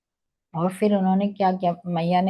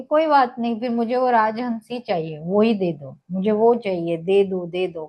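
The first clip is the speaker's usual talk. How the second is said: put-on whiny child; 2 semitones higher than usual. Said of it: "करके रोने लगे".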